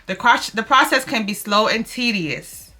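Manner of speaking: earnest read-aloud of a devotional, slowing at the end. Real, not acted. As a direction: read the text like a gentle sermon. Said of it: "I'm gonna read it really quickly to y'all".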